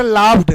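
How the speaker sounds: voiced v and d ending in लाव्ड; pupils' mistaken pronunciation. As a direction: say लाव्ड as laavd. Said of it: "बच्चे कह रहे हैं sir".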